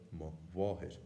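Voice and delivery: mo wahid with a w sound; Munster pronunciation. Shown as a demonstration. Teacher showing the Munster way of saying it. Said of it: "pronounced as a w".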